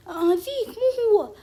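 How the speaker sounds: high, loud, slowed frantic call; real frantic gamer shout; excited cry. Real, not acted. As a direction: shout in alarm at the wrong one. Frantic moment in game.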